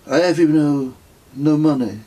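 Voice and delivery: put-on pilgrim bragging smugly, French accent. A narrator's reading. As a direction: boast of having no money in a French accent. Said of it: "he told us smugly".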